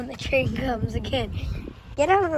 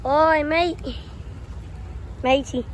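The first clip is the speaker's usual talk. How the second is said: mock Australian accent; 3 semitones higher than usual. Kid at the railway crossing calling out in a mock Australian accent. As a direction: holler like a cartoon Aussie. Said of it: "almost got changed to an Australian accent".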